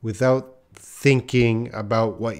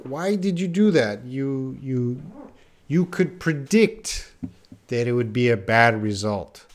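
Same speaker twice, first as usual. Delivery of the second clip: mock reproach. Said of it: "So someone will say".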